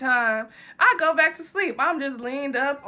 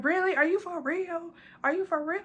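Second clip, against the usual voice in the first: mock-incredulous, higher pitched drunk voice; a tipsy, pleading squeak of disbelief; drunk whiny self; 6 semitones higher than usual. To the staff closing up, a high tipsy disbelief.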